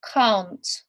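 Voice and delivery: can't as one clipped syllable with a falling tune; modelled can't. Shown as a demonstration. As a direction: demonstrate the short form can't clearly. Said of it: "we can say".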